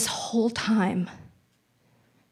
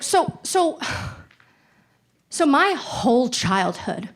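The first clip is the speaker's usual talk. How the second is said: stunned disbelief; 5 semitones higher, slower than usual. Retold or imitated. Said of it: "I was like".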